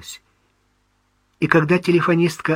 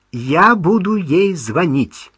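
firm, no objections; 6 semitones higher, 5 dB louder, slower than usual. Acted. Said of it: "тоном, не принимающим возражений".

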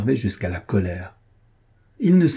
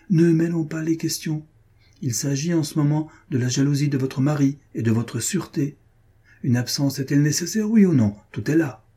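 impatient; 5 semitones higher than usual. Acted. Armand losing control of the talk, impatient demand. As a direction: cut her off, insistent and irritated. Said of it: "répondit Armand impatienté".

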